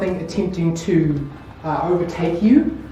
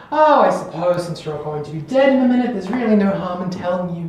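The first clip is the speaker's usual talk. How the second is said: gloating Countess; 3 semitones higher than usual. Acted. The Countess reveals herself as the Assassin, grandly menacing. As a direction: savor the reveal, slowing into the challenge. Game master plays villain's reveal.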